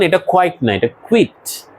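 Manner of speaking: কোয়াইট then কুইট said distinctly; pronunciation contrast. Shown as a demonstration. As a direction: set কোয়াইট against কুইট clearly. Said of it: "এরপর last one".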